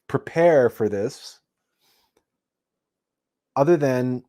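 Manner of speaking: measured meditation talk with long pauses; meditation guide. Real, not acted. Meditation teacher introduces the first technique to listeners, measured and unhurried. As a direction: explain unhurriedly, pausing between phrases.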